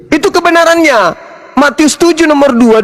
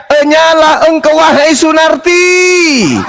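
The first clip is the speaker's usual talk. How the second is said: shouted rebuke; 3 semitones higher than usual. Acted. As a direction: cry out a banishing verdict. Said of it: "Aku melihat teriakan dia".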